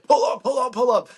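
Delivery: high, loud pleading in mock panic; near-tears panic. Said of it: "like, pretty much crying".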